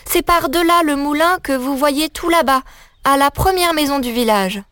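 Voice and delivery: put-on a child cheerfully explaining her errand; little girl voice. Little girl telling the wolf about her errand, innocent.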